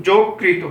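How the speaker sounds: যকৃত said as "জোকৃত", first vowel o not ô; teacher's model pronunciation. Shown as a demonstration. Teacher models যকৃত for students, clear o sound. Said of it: "উচ্চারণ হবে কি?".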